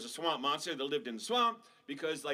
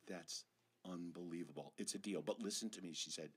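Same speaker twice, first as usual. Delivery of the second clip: stern warning mom; 9 semitones lower, 6 dB quieter than usual. Acted.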